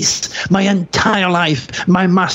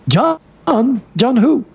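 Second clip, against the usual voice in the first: puzzled; 8 semitones higher than usual. Retold or imitated. Old couple puzzled by the name.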